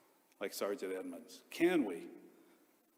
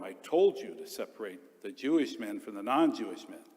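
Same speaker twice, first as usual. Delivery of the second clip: a commandant's raised, barking order; retold yell; 6 dB louder than usual. Commandant yells at the prisoner sergeant, raised and harsh. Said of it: "He yelled at him".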